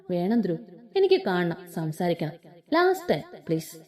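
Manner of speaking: mild pitiful request for one last meeting; pitiful begging. A narrator's reading. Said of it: "ദയനീയമായി അപേക്ഷിച്ചതും".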